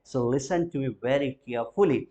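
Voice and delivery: slow, deliberate call to attention; slow emphasis. Shown as a demonstration. Teacher asks students to listen, slow and deliberate. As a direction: drag it out so they listen.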